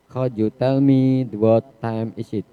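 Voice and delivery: slow, clear English model phrase; teacher modelling a polite question, slow; slow model sentence. Shown as a demonstration. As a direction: read it slowly for the class. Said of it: "Dapatkah kamu menceritakan".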